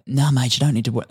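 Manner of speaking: a half-hearted mock Australian accent; lightly done Australian accent, a Brit imitating; bad Australian accent. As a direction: play a laid-back Aussie mate, badly faked Australian accent. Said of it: "That's a terrible Aussie accent".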